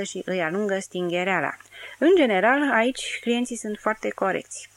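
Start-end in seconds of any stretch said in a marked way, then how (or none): 2.0-4.7 perking up after a whisky; an emboldened lift at the start; emboldened, higher and louder. Acted. Bellboy loosened by whisky tells Dirty, emboldened.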